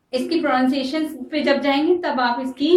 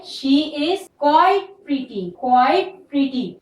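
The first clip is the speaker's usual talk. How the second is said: quite drawn out very slowly; slow and lean on quite; emphasize quite; stress on quite; much slower than usual. Shown as a demonstration. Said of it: "Instead of saying she is very pretty".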